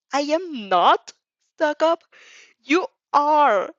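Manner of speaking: high, loud indignant comeback; childish retort. Acted. Quarreling with her shadow, loud childish denial. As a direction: shoot it back like a sulky kid.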